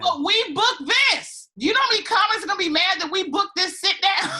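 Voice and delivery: high, loud gloating shout. Acted. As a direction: crow about it, way up high. Mock gloating over booking.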